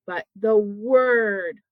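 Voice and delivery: "word" drawn out slowly; slow teacherly stress on "word". Shown as a demonstration. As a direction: stretch "word" to set up a contrast. Contrasting word with sound.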